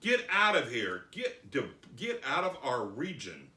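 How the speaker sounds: acted urgent entreaty; pleading. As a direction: plead insistently as the townspeople. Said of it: "So they began to plead".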